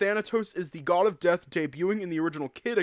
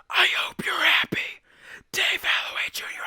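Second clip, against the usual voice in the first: whispered, breathy talking-rat character voice; 12 semitones higher than usual. Reading a story aloud, voicing a talking rat: put-on talking rat voice. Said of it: "I cannot keep doing that voice".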